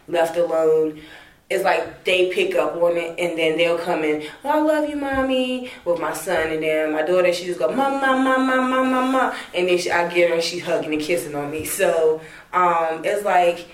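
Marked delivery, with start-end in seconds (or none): 4.4-5.7 put-on high, sweet child voice saying he loves Mommy; lightly voiced loving little boy. Son voiced coming in to comfort. 7.7-9.3 high, insistent repeated mom, much higher; lightly voiced baby daughter calling; toddler calling mom.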